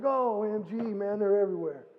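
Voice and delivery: shocked at the scattered flock; retold alarm. Spotting sheep spreading up the hill, alarmed. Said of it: "I look up there, I'm like".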